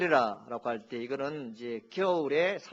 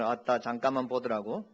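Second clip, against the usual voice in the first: Jeolla dialect. Shown as a demonstration. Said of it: "전라도는".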